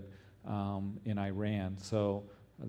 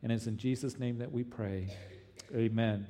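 earnest pleading prayer. Acted. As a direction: pray earnestly for the persecuted. Pastor leads congregation prayer.

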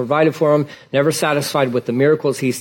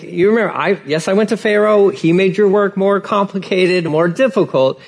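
higher, pleading frustrated Moses; exasperated Moses; 5 semitones higher than usual. Retold or imitated. Moses answering the complaining people, higher and exasperated. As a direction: Moses arguing back, fed up but patient. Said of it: "He's like".

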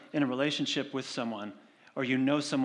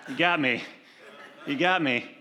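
laughing; 5 dB louder than usual. Real, not acted. Laughing admission.

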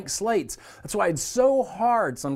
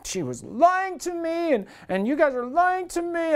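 imitating crying daughter; 11 semitones higher than usual. Father retelling his daughter's tearful accusation, high crying voice. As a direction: mimic a little girl breaking down in tears. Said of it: "she starts crying and she starts breaking down".

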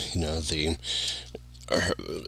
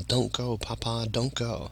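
imitated faint, higher voice from a dream; distant voice; 4 semitones higher, 8 dB quieter than usual. Dreamer recalling the bizarre deathbed dream, distant soft plea. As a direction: softly echo a far-off plea, pitched higher. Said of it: "a distant voice saying".

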